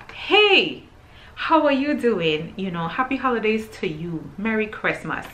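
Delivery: high, drawn-out holiday greeting; lively sing-out hello, starting high then easing. Retold or imitated. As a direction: greet them with playful festive cheer. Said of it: "a little bit more cheerful".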